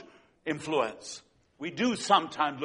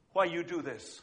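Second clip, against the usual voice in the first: quiet tearful question; 2 semitones lower, 8 dB quieter than usual. Retold or imitated. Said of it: "And she says to the lady".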